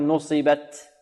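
نصبت with final ت sliding towards an s sound; overdone hissing ta. Shown as a demonstration. Teacher showing the error to avoid, sibilant-tinged final ta. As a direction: let the last ت of نصبت leak into a sin. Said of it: "خطأ".

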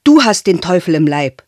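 put-on loud, angry childish yell; boy wants to scream at the old woman; boy shouting. A narrator's reading. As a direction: fling it at her with all his might. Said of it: "die Alte anschreien".

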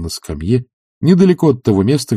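ordinary delivery, nothing marked

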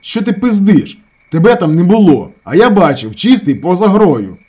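high, very loud, slow at the end; furious shout. A narrator's reading. Ravzan screams at his brother, furious. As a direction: scream him down.

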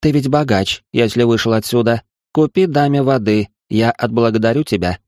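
wheedling strange creature woman. Acted. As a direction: coax him like a pushy alien beggar. Creature grabs him, begs again.

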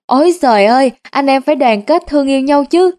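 half-hearted shout to stop the brawl. Acted. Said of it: "hét vang".

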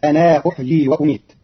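أنا with its alif kept, long a at the end; Qalun reading. Shown as a demonstration. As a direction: say أنا as anaa with the final alif sounded. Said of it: "فتصير".

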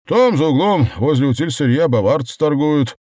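loud, high, animated reply; perking up. A narrator's reading. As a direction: perk up and point the way eagerly. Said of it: "оживился Женька".

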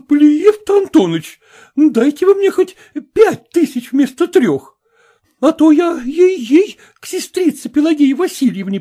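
high, loud wheedling spinster voice; pleading old maid. Acted.

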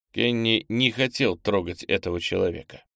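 usual speaking voice

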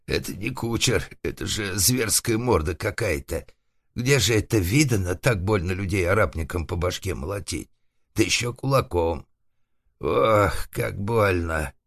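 слегка сыгранный возмущённый старик-шарманщик; ворчи с обидой, чуть выше обычного; обиженный шарманщик. Acted. Избитый шарманщик жалуется сам себе. (слегка обиженное ворчание шарманщика)

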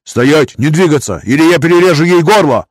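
high, loud hostage threat; threatening shout. A narrator's reading. Cornered master threatens hostage, high loud shout. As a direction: bark it like a cornered man. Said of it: "мастер схватил баронессу".

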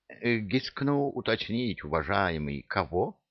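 soft, meek, wheedling question; timid old treasurer. Acted. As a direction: ask meekly and evasively.

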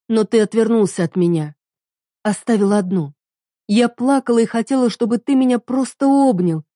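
wife recalling lonely nights; tearful reproach. Acted. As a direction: remember the pain as you say it.

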